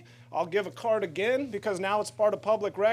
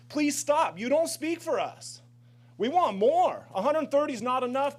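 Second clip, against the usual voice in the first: raised, higher pleading voice; heated plea; 5 semitones higher than usual. Real, not acted. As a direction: push back hard at the opponents, voice up.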